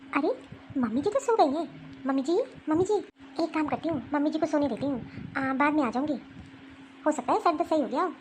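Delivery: lightly voiced young wife, hushed near the sleeper; daughter-in-law. Daughter-in-law finds mother-in-law asleep, lightly voiced and hushed.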